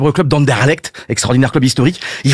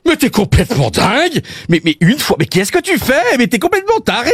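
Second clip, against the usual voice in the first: high-pitched outraged Belgian wife, no real volume; mock yell, Belgian accent; 5 semitones higher than usual. Wife finding her home wrecked, Belgian-accented mock yell. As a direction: scold in a light Belgian accent, pitch climbing. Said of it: "elle hurle en voyant le carnage".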